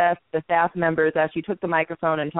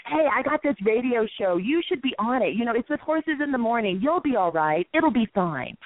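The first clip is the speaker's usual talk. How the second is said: reassuring; 4 semitones higher than usual. Retold or imitated. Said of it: "they said that I always".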